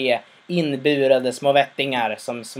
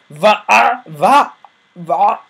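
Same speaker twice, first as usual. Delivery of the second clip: much higher, louder incredulous va; stunned disbelief; 7 semitones higher, 8 dB louder, much slower than usual. Retold or imitated. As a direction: react as if the floor fell away. Father stunned by son's refusal.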